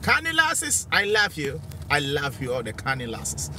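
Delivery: hammed-up flirt. Hamming Geordie flirt.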